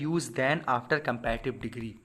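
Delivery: very slow, word by word, reading the rule; slow dictation. Shown as a demonstration. Teacher to students, reading the rule very slowly.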